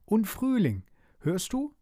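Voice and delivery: high, squeaky-small flower voice; very high little storybook voice; tiny little voice. A narrator's reading. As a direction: pipe up like a tiny creature. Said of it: "sagte ein Stimmchen".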